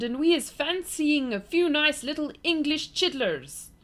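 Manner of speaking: high, loud put-on giant voice; greedy giant. A narrator's reading. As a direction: gloat like a hungry brute. Giant flesh lump eater voiced.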